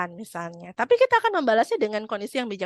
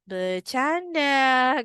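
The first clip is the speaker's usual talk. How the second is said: mocking teen excuse; 4 semitones higher, much slower than usual. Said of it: "anak sekarang".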